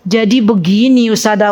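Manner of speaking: low confiding lead-in; confiding questioner. Retold or imitated. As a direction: lightly imitate someone about to pour out troubles. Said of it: "ini alamat curhat ini".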